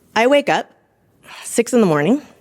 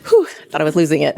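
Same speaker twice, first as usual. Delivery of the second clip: laughing relief; faster than usual. Real, not acted. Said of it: "laughing relief".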